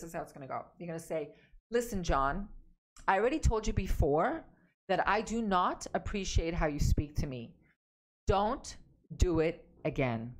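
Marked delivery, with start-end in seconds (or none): 1.7-10.3 scolding husband John firmly, no excuses; forceful and assertive. Shown as a demonstration. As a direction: lay down the law to John, no apology. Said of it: "Now you're being forceful, with command, confident, assertive".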